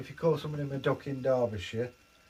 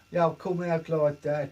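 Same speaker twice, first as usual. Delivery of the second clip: lightly put-on Birmingham accent, pitched up; slightly higher Birmingham voice; 4 semitones higher, 4 dB louder than usual. Shown as a demonstration. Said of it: "What about Birmingham".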